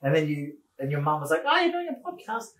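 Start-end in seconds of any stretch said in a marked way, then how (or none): 1.5-2.5 very high-pitched mum voice; mum impression. Listener's mum remarks on the podcast, high-pitched mum impression. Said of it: "that's my mum impression".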